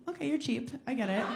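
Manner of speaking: ordinary talk, nothing marked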